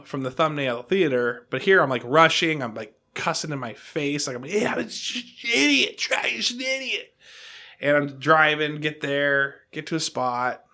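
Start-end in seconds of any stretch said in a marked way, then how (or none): 4.5-7.1 higher, mocking self-insult; mock self-scolding. Rushing driver mocking himself, pitched up. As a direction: scold yourself in a silly high voice.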